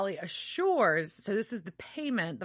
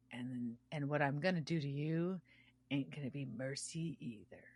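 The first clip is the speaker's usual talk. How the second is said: menacing whisper; 5 semitones lower, 10 dB quieter than usual. Retold or imitated. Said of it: "And Dean's like".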